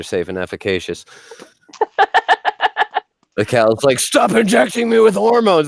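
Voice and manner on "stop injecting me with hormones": high mooing farm animal voice; cow voice. Acted. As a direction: speak as a complaining cow. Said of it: "That's not even how I sound".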